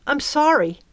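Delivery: anxious apology. A narrator's reading. Girl apologising in panic.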